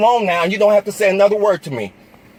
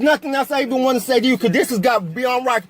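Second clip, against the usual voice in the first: angry; 2 semitones higher than usual. Real, not acted. Arguing with officer and wife.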